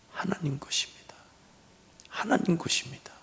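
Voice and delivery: hushed whisper, barely voiced; soft preacher's whisper. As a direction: breathe it out like a secret. Preacher whispers God's ownership.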